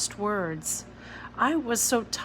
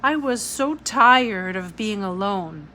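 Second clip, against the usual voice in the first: tearful; 7 dB louder than usual. A narrator's reading. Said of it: "I did cry".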